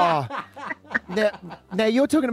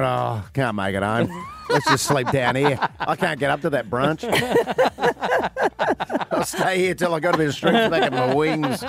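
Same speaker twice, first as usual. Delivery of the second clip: lightly voiced boozy magpie; sleepy slurred bird character; drunk magpie impression. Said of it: "good magpie impersonation".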